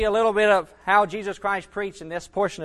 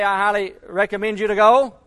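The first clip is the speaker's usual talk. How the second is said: a touch of mock politeness, rising at "go"; mild suggestion; 3 semitones higher, 6 dB louder than usual. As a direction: offer it like a gentle option. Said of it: "Jesus Christ didn't say".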